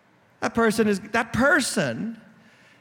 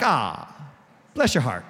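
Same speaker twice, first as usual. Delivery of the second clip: Southern Christian sweetness; 9 semitones lower than usual. Acted. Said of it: "Southern Christians are like".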